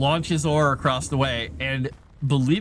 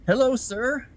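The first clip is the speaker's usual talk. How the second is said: high sing-song greeting to the cat; 11 semitones higher, 6 dB quieter than usual. Real, not acted. Greeting the cat, high baby talk. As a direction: coo hello up high to a pet.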